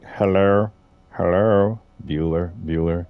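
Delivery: comic drawn-out "hello"; mock calling out. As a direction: call out as if nobody's home.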